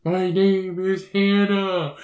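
slow, high, laughing ghost voice; mock spooky voice. Friend voicing the dream baby slowly, laughing. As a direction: drag it out like a ghost.

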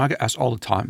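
lightly attempted British accent, quick and casual. Host imitating a worship songwriter's words, not a good British accent. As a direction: have a rough go at a British accent. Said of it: "in his beautiful accent".

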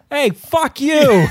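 slow, high, loud street yell; angry shout. Retold or imitated. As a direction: yell it at a stranger. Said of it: "and he goes".

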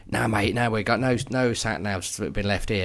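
put-on a rough Cockney accent for the rental clerk. Car rental clerk telling the couple no sat nav was left, Cockney accent. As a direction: play the car-hire man in Cockney, dismissive. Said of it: "Is that what they talk like? / he was Cockney".

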